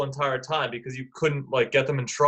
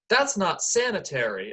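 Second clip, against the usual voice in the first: retold yell; 4 semitones higher than usual. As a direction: imitate an indignant boy's protest. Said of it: "boy yells".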